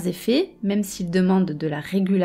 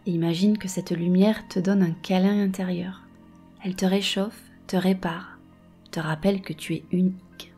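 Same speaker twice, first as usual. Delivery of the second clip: guided meditation. Acted. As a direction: gently guide the listener. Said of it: "Je vais te guider dans une méditation".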